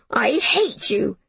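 put-on slow, wailing child's cry; howled. Jamie howling at Miss Smith as he is hauled off. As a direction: drag it out in a howl. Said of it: "he howled".

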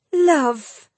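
high, loud scornful echo; loud, bitter disgust. A narrator's reading. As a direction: throw the word back with hatred. Jill spits the word back.

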